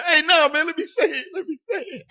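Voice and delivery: high, loud protest; mock aggressive. Friend imitating himself getting aggressive on the show, mock aggressive. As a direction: burst out high, demanding to be heard. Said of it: "get all aggressive and be like".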